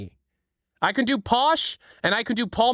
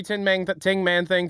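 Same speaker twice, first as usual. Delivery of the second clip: usual speaking voice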